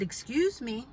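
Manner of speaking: composed, polite excuse me; calm good-girl voice. Retold or imitated. Calling up to the neighbor about water, calm and polite. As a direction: keep it calm and unforced. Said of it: "My calm, Dolce Dawn voice".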